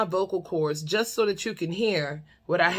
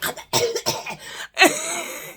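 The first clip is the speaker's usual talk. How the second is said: imitated snore; 11 semitones higher than usual. Imitates his choking snore on waking.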